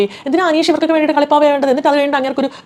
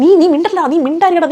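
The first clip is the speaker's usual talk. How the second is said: shouting him down; 6 semitones higher than usual. Retold or imitated. Akbar shouting Aneesh down.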